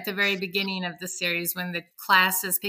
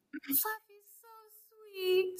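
put-on sweet children's voices; 12 semitones higher, 10 dB quieter than usual. The whole class greets the new guinea pig, high and sweet. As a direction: chirp it like a cheery little kid. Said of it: "and all the little children".

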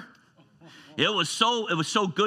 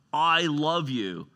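heartfelt declaration; 2 semitones higher, much slower than usual. Acted.

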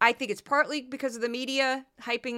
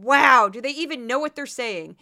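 incredulous; 8 dB louder than usual. Retold or imitated. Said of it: "I just sat back going".

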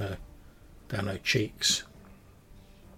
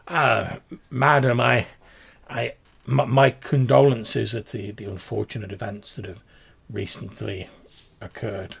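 condoling gentleman; 6 dB louder than usual. Acted. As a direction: awkwardly offer solemn sympathy.

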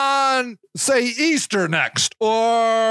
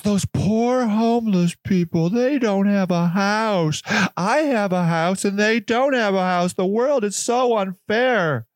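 mock pity. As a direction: lay the pity on thick. Mocking pitying do-gooders.

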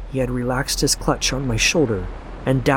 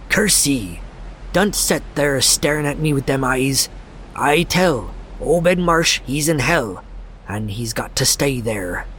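frenzied ranting. Acted. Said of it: "was really screaming now".

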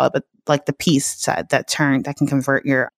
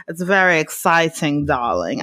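put-on dramatic voice; 4 semitones lower than usual. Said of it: "I don't even know why I'm talking like this".

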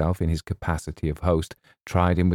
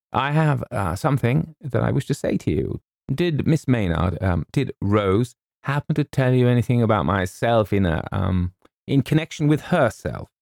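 higher-pitched, halting Colonel; awkward old officer feeling his way; hesitant Colonel; 6 semitones higher than usual. A narrator's reading. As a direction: hem and haw towards a delicate question.

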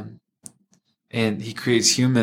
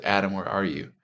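gentle call; 6 dB quieter than usual. Retold or imitated. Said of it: "no angry tyrant tone to my voice".

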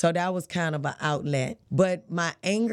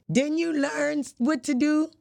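higher-pitched, mock-incredulous brother; retold incredulous question; 9 semitones higher than usual. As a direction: imitate a brother's disbelieving question.

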